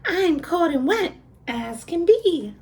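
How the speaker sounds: a cold wet piglet begging. A narrator's reading. The pig asks for room, high and quick. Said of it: "said the pig".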